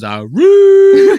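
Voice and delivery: high, loud squawked yelp imitating Rob; mock loud yelp. Host mocking Rob's reaction on the show, loud high yelp. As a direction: blurt it out high and loud like a clueless guy. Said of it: "He goes".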